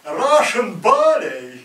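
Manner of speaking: put-on slow, high, loud Russian accent. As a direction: belt it like a Russian ballerina. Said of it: "classical Russian accent was".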